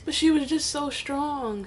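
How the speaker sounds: holding back a sob; choked up. Real, not acted. Praising her mother's strength, choked up. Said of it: "let me pull myself together".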